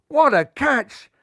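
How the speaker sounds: slow, high, loud marvel; amazed. A narrator's reading. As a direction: savour every word of it. Amazing catch.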